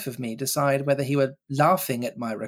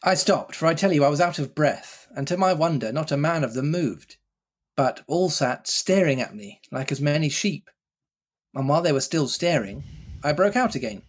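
story narration. Acted. Reading Treasure Island to friends, storytelling voice. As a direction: tell it like an adventure yarn. Reads the novel aloud.

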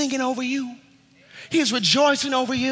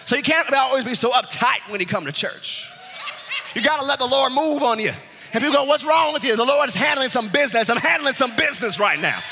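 driving, emphatic preacher delivery; fervent preaching; 4 semitones higher than usual. Real, not acted. Preacher urging church to rejoice, fervent preaching.

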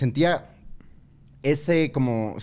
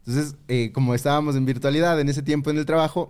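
ordinary delivery

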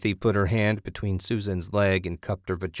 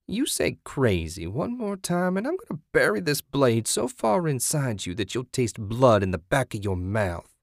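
pitched-up crazed warning that descends darkly; menacing zealot, threatening; 5 semitones higher than usual. Acted. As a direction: threaten a captive with relish.

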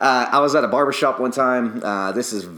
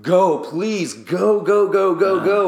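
urgent hurry; 9 semitones higher, 5 dB louder, slower than usual. Retold or imitated. Urging client to wash eyes.

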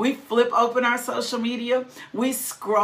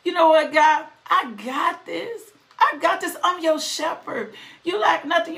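God's voice acted out; 5 semitones higher than usual. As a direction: play God reassuring a friend, sassy and lively. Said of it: "Psalms twenty-three says".

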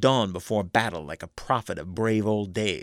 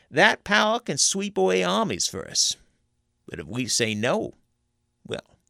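high, loud and threatening hill-country conjurer; a conjurer scaring a young soldier into line; menacing backwoods conjurer; 5 semitones higher, 3 dB louder than usual. A narrator's reading. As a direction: warn him the pact can't be broken. Teague describes the roused power.

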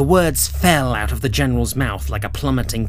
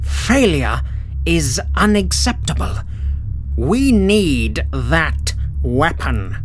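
very slow, deliberate menace; cold villain; 3 semitones higher, slower than usual. Acted. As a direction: lay down the law with icy weight. General threatening his crew.

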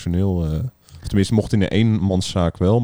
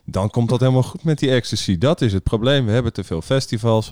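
imitating minister Grapperhaus; 4 semitones higher than usual. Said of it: "Dat hij zei".

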